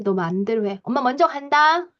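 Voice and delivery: mock brush-off; indifferent parent. Cut-off parent walks away from tantruming child, indifferent. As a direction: wash your hands of the child. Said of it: "손절형은 이제 무관심, 무시".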